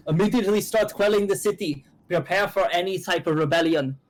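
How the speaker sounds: put-on officer voice issuing urgent orders; commanding general. General to his troops on quelling the city, commanding. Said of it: "Borgon's like".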